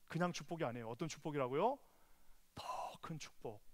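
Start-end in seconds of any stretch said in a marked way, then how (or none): 2.6-3.6 whisper. Acted. Preacher drops to hush.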